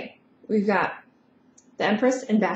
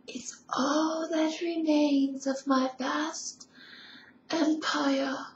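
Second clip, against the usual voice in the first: breathy Empress; 3 semitones higher, 6 dB quieter, slower than usual. Acted. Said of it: "her voice was, like, really breathy".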